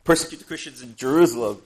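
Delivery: loud, eager mock enthusiasm; excited persecutor. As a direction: act out Saul keen to go hunting. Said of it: "he is excited about it. He's like".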